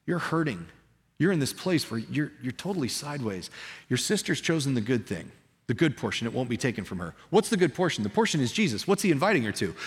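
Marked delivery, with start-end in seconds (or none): 0.0-7.1 tender. Retold or imitated. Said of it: "He's talking to her heart".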